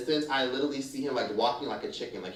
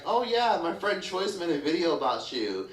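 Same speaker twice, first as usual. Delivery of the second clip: higher-pitched mimicry of a name-dropper; mock gossipy; 4 semitones higher than usual. Friend name-dropping to people in their DMs, mock gossipy.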